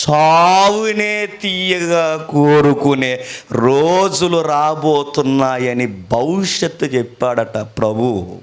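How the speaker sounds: slow, drawn-out prophetic delivery; solemn preaching. Retold or imitated. Preacher recounts the Lord's prophecy of dark days, solemn preaching. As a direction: stretch the words out like a grave prophecy.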